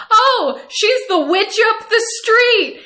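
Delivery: high, loud, delighted punchline; mother relishing the joke; gleeful reveal. Retold or imitated. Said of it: "And she said".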